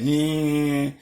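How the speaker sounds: drawn-out, mocking imitation of his yeah; imitating drawn-out yeah. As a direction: stretch out the yeah, mimicking him. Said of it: "like that".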